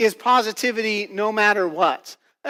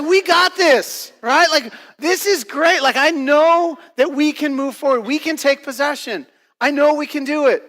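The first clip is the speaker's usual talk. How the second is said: excited cheering; 4 semitones higher than usual. Retold or imitated. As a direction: pump up the crowd, we can do this. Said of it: "he's yelling out".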